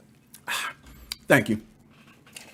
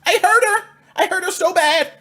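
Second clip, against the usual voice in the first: laughing fake cry. Mock remorse after ray gun.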